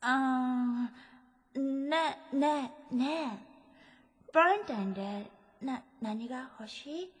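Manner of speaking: put-on soft, slow foreign-accented Japanese, searching for words; foreigner's halting Japanese. Foreign girlfriend offers a Valentine gift, soft halting foreign-accented Japanese. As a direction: stumble tenderly through broken Japanese with a foreign accent. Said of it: "帰国して間もない外国人フェロモン".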